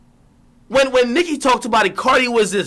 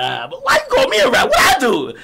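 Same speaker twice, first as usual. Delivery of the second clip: mock indignation; 5 semitones higher than usual. Imagined mock protest.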